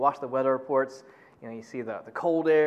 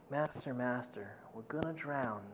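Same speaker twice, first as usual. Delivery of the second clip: tag; 5 semitones lower, 13 dB quieter than usual. Retold or imitated. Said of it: "they wake up Jesus".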